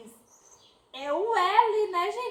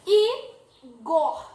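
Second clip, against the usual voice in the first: called-out example; 7 dB louder than usual. Shown as a demonstration. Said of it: "teacher calling out example".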